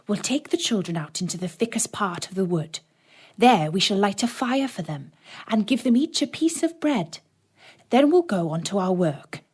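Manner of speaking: lightly voiced cold stepmother; a hint of a hard, plotting wife; wife plotting against husband, lightly voiced; scheming stepmother.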